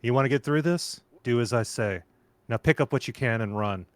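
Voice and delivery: put-on low, gruff South African accent. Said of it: "white South African voice".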